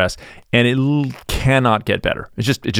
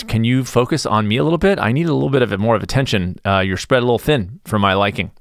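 ordinary talk, nothing marked

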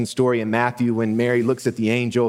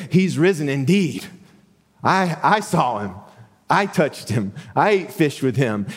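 excited; 4 semitones higher than usual. Retold or imitated. Disciple voiced, eager witness.

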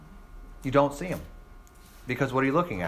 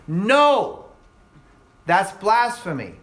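outraged protest; 4 semitones higher, 3 dB louder, slower than usual. Retold or imitated. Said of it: "And they're saying".

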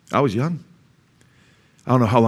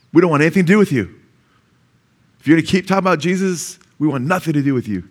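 hostile family; 4 semitones higher, faster than usual. Retold or imitated. Family cutting off the believer, hostile. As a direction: snap it like angry relatives.

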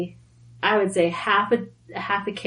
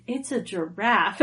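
mock deadpan husband, dropped low and softer; unimpressed husband; 3 semitones lower, 5 dB quieter than usual. Husband to wife upset over a giraffe, unimpressed. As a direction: play the unmoved husband against her excitement.

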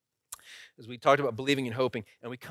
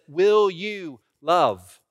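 slow, measured vow question with pauses; wedding officiant; 4 dB louder, slower than usual. Retold or imitated. Pastor asking a groom his wedding vows, officiant's measured delivery. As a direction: pose the vow phrase by phrase, solemnly. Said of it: "stood in front of a lot of grooms".

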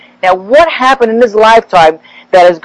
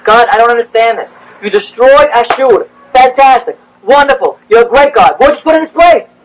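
mock complaint to God. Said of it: "What's worse over here?".

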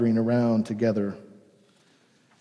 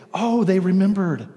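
gasping, higher-pitched dawning wonder; acted sudden realisation; 5 semitones higher than usual. Disciples suddenly understanding Jesus's words, amazed realisation. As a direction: let it suddenly click, with a gasp.

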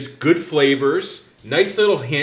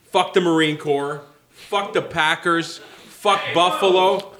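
snarling punk. Pretend. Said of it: "calm down a bit".

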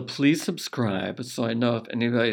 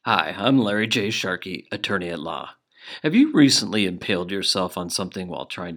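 lawyer ad voice; 3 dB louder than usual. Acted. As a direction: sell it like a cheesy lawyer commercial. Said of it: "we need to run the spot".

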